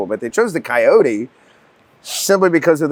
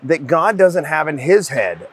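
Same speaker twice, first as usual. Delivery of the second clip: slow solemn quote; 3 semitones higher, slower than usual. Retold or imitated.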